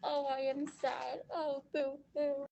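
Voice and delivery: mock sad. Orphan mock sadness.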